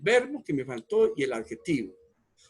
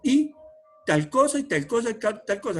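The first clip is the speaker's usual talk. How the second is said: each "y" hit hard and a touch higher; stressing "y"; 7 semitones higher, 4 dB louder than usual. Shown as a demonstration. Teacher stressing "y" for students, each "y" leaned on. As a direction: lean on every "y" in "y tal cosa y tal cosa". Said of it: "yo recalco".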